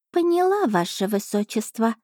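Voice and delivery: a smug little cat savouring her dinner; chatty cat familiar. Acted. Cat familiar Asha speaks.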